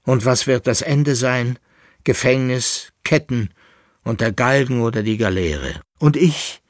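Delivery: high, loud, mounting despair; despairing lament. A narrator's reading. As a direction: bewail it, rising to desperate cries. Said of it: "stöhnte der Leitnitzer". (verzweifelt klagend, immer lauter)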